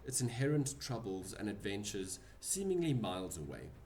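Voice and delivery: game master scene setting. Acted. DM narrates the scene.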